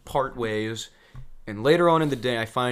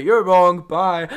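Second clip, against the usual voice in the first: louder, higher quick dismissal; curt brush-off; 7 semitones higher, 10 dB louder, slower than usual. Retold or imitated. Leaving the cult members, loud curt dismissal. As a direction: snap it off and leave.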